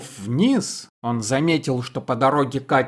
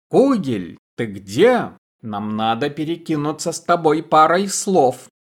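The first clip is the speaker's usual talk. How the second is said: shouting; 3 semitones higher than usual. Acted. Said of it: "кричали они".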